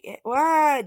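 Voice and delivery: high, loud innocent yelp; caught-out dad. Retold or imitated. Husband Hisashi caught by wife, high mock innocence. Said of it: "Hisashi's just like".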